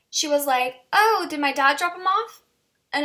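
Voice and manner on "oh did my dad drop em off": high-pitched, lightly mocked innocent question; innocent-sounding roommate. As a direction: imitate playing innocent with a lifted pitch.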